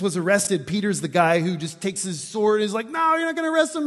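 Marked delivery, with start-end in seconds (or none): 2.9-3.9 high-pitched mock battle cry; defiant yell. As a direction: yell it like a hothead charging in. Acts Peter attacking with his sword.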